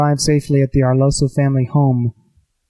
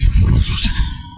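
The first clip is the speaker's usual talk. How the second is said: imitated whoosh. Game master voices the vanishing.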